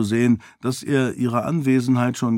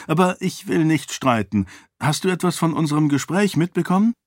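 put-on higher-pitched young lady's dialogue; lightly voiced heroine; 6 semitones higher, faster than usual. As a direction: lift the pitch for an earnest heroine.

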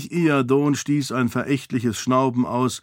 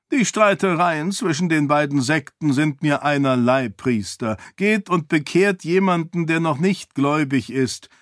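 higher, impatient king voice; dismissive king; 3 semitones higher than usual. Acted. King dismisses priest, higher impatient voice. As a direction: wave the priest off, pitched up.

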